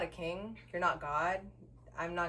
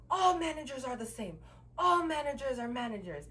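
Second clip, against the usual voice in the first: raised-pitch mimicry; imitating pissed-off insistence; 5 semitones higher than usual. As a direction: insist as him, pitched a bit higher.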